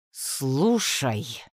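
slow, each syllable of "Слушай" set apart with a falling end; measured, clipped out. A narrator's reading. Woman laying down the law to the mage, measured. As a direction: spell out "Слушай" deliberately. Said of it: "размеренно отчеканила я".

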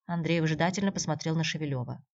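plain reading voice

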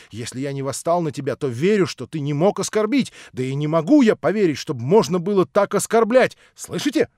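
agitated son. Acted. Alyosha defending Natasha to his father, quick agitated plea. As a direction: rush to defend her.

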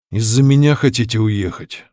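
ordinary delivery, nothing marked

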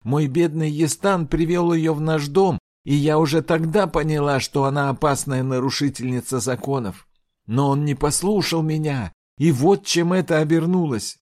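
shrill, high and loud accusation; fierce outcry. Acted. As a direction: cry it out with bitterness. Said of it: "выкрикнула с ожесточением".

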